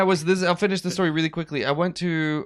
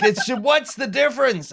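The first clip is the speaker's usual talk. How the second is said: retold incredulity; 8 semitones higher, 4 dB louder than usual. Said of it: "He was like".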